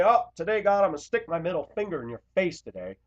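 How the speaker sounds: mocking a defiant sinner's prayer; mock defiance. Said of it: "I didn't sit out and say".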